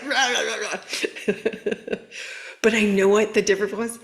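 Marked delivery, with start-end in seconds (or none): 0.0-2.0 playful rah rah, imitating her client's rant; fading into a laugh; mock ranting noise. Coach imitating her client's urge to rant, mock ranting. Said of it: "she wanted to just, like".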